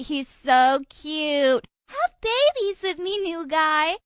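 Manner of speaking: high, drawn-out swooning; swooning girls. Acted. Girls in school fawning over the new guy, high swooning.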